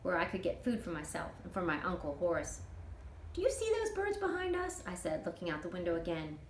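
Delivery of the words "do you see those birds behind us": lightly voiced young girl, higher; a hint of a small girl's voice; curious girl. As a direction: ask it like an eager kid. Child asks about birds.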